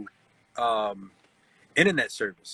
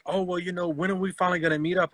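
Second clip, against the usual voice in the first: lightly mimicked eager scammer, higher pitch; higher-voiced quote of a pushy online suitor; imitated scammer; 5 semitones higher, faster than usual. Scammer pushing to finally meet.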